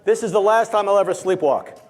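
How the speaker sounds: loud, slowed call to the crowd. Shown as a demonstration. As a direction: lead the room, loud and deliberate. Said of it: "now say out loud".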